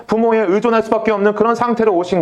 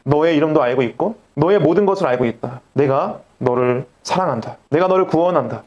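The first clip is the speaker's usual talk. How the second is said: God's loving voice; 5 semitones lower than usual. Retold or imitated. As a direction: speak as God gently telling a lost soul he is known. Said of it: "이렇게 다가오십니다".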